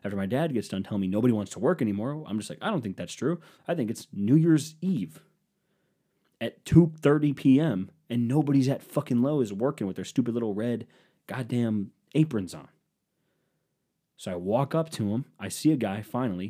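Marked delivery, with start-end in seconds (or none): 2.6-12.7 ranting. Retold or imitated. Ranting about lazy workers.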